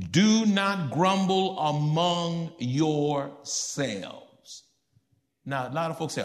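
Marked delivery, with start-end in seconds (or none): 0.1-4.2 slow, weighty command; solemn, slow words of Jesus. Acted. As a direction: say it as the authority speaking. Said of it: "Jesus answered them".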